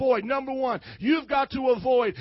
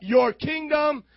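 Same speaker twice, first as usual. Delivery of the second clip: slow leading prayer; 2 semitones higher, 4 dB louder, slower than usual. Shown as a demonstration.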